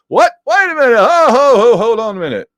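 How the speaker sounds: loud, high mock alarm; hammed-up scramble to stop someone leaving; startled protest. Avengers stopping Spidey as he walks out, startled protest.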